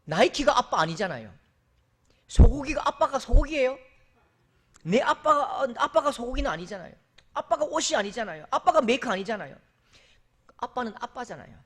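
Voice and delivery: put-on a young son setting his father straight; child's retort. Preacher voicing a young son answering his father, lightly childlike. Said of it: "말이 걸작입니다".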